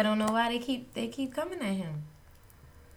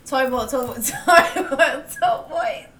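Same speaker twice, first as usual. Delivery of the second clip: fast tongue twister; 4 semitones higher, 9 dB louder, slower than usual. Shown as a demonstration. Podcaster taking the five times fast challenge, fast and giggly. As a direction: TOY BOAT repeated quickly, stumbling into laughter. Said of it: "you said it five times fast".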